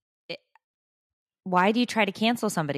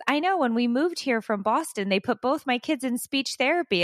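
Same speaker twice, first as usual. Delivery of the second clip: mock neighbor voice; 6 semitones higher than usual. Quoting Boston neighbor, raised voice.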